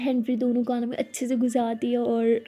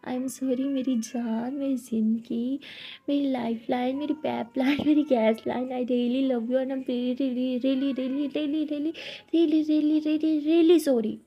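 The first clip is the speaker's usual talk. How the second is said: slow, drawn-out "I am sorry मेरी जान"; a hammed-up, lingering "really, really sorry"; proper heartfelt sorry; slower than usual. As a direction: stretch every "really" slowly, pleading. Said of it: "अच्छे से sorry बोलो".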